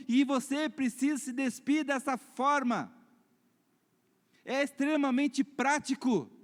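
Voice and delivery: high, emphatic exhortation; forceful preaching. Real, not acted. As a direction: urge the congregation with ringing, measured force. Exhorts the congregation. (exortação enfática de pregador)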